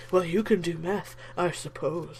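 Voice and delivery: mock-snarky actor's disclaimer; grudging, snarky send-up; kinda snarky. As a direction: imitate him with a weird, snarky cadence. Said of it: "he sounds kinda snarky".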